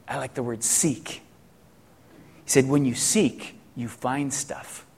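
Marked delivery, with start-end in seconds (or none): 0.1-1.2 softly retold child's remark; youngest son's quote. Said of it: "my youngest son said". 2.7-4.8 put-on hushed, slow retelling of a child; son's wondering quote. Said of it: "see the way he said it".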